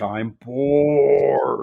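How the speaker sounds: super deep, drawn-out, whining giant voice. Describing a character standing there whining, super deep booming voice. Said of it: "like in a super deep, booming voice".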